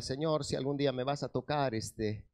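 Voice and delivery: understated, polite plea to the Lord; retold prayer. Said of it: "yo decía".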